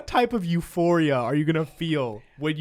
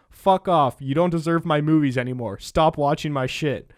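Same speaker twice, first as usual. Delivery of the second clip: loud mock retort; 5 dB louder than usual. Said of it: "He says".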